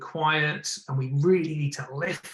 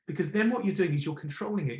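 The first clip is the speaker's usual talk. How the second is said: normal talking voice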